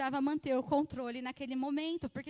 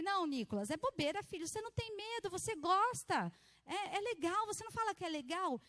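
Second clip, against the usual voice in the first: put-on mother coaxing child; 6 semitones higher than usual. Mother reassures her son about the plane, coaxing. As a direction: gently talk a scared child round in a raised voice.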